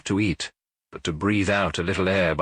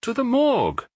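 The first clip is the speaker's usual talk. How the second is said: inspector's curt reply. A narrator's reading. Inspector answers curtly.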